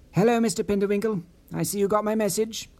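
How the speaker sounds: mysterious woman hurrying through her words on a payphone; hurried woman caller. Acted. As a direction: rush it like a caller short on time. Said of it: "in a rather hurried fashion".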